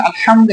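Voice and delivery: আলহামদু with a throaty h; big throat Ha. Shown as a demonstration. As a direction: pharyngeal h in আলহামদু. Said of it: "এটা বড় হা".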